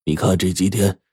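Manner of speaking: slow, measured master's lesson; old master teaching. Acted. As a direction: instruct the disciple slowly. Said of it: "法师对着扇子说".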